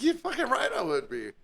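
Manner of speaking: very high-pitched imitated reply; eager mock agreement. Coworker agreeing to switch jobs, high-pitched eager mimicry. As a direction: shoot the voice way up to agree.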